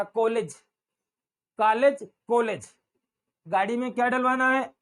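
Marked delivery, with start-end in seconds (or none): 0.0-2.8 कॉलेज with a gliding sound between o and aa; correct pronunciation. Shown as a demonstration. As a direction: demonstrate कॉलेज, o sliding into aa. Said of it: "बोल के देखिए". (कॉलेज ओ से आ की ओर फिसलती आवाज़)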